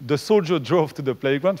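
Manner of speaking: English read with a French accent. Real, not acted. Lecturer reading English example to students, French-accented English. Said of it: "vous allez remarquer mon accent anglais".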